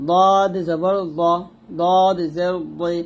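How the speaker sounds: "দদ জবর দ" slow and thick; heavy dad. Shown as a demonstration. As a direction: weigh down each syllable of "দদ". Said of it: "এরকম মোটা উচ্চারণ করতে হবে". (মোটা করে দদ)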